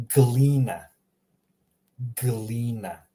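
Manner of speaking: "Glina" as GLEE-nah, g and l joined; letters run together. Shown as a demonstration. Teacher shows learners Croatian reading, "Glina" run together. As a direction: say "Glina" as one smooth word with hard g. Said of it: "just smashing them together".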